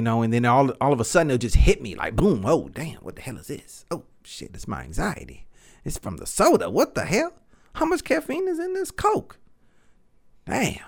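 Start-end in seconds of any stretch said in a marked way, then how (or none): 2.5-10.8 rising, high panicked muttering; mock panic. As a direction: spiral into panic over the soda. Voicing sudden anxiety attack.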